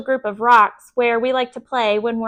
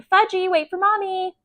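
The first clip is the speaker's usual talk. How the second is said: mother hollering; 7 semitones higher than usual. A narrator's reading.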